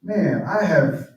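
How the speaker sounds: loud, high, aggrieved protest listing every good deed; frustrated older son. Retold or imitated. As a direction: rant like the dutiful son who got nothing. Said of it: "super frustrated".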